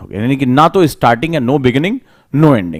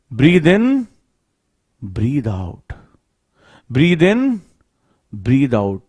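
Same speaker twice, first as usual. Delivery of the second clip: slow, measured phrases with long pauses; guided meditation; slower than usual. Acted. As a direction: lead them into the breath, rising then settling. Leads into breath meditation. (धीमे, ठहर-ठहर कर ध्यान कराते हुए)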